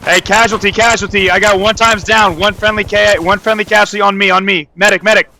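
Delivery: high, loud urgent call for a medic; man down shout. Real, not acted. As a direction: yell for help over gunfire. Teammate hit, calling for medic.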